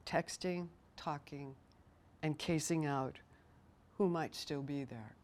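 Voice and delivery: measured poetry reading with pauses between phrases; poem reading. Acted. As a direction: read your poem line by line, letting each phrase settle. Reads her poem aloud.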